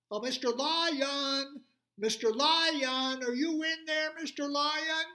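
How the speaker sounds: high, loud, slow calling voice; little animals calling. Acted. Little animals calling the lion at the door, high and loud. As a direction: sing out to him in tiny high voices.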